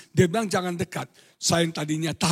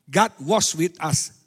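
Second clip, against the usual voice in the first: God was with us, slow, with was leaned on; stress on was; 4 semitones lower, 4 dB louder, slower than usual. Shown as a demonstration. Preacher teaching tenses, stressing was. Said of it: "Di masa lalu".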